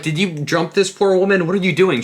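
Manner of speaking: high-pitched mock dismay; incredulous scolding. Boyfriend questioning girlfriend about a fight, high and incredulous. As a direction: scold in put-on disbelief.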